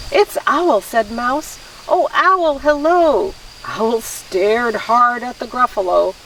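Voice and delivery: animated read-aloud with swooping pitch; story narration. A narrator's reading. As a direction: read a picture book to children. Reads picture book aloud.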